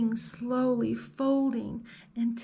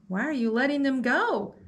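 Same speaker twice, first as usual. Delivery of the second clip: put-on 1 demanding girl; 4 semitones higher, 3 dB louder, faster than usual. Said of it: "demanded Fiona".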